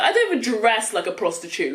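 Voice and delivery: laughing while retelling her own indignant reply; laughing protest. Retold or imitated. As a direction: retort laughing through it. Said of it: "I was like".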